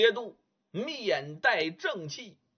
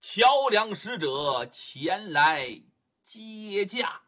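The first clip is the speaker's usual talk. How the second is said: louder, slow ceremonial call to greet the emperor; drawn-out formal announcement; ghost soldiers' chorus; 4 dB louder, much slower than usual. Acted. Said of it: "口中齐呼".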